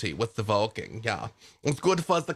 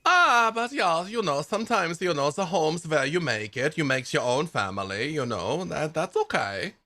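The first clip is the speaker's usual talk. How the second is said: put-on Del Munster accent; 4 semitones higher than usual. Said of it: "seven out of ten for this accent".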